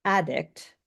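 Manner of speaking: ADdict, with the first syllable stressed; "addict" said with a strong first syllable. Shown as a demonstration. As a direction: punch the AD in "addict", as in the noun. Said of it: "So if you saw this word".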